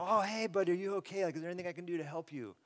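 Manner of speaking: high-pitched, gentle concerned parent; tender. Acted. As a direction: check kindly on a fallen child. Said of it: "but a tender voice".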